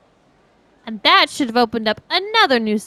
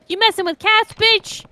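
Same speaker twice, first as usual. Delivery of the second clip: mock threat; 11 semitones higher, 3 dB louder than usual. Acted threat in the game quarrel.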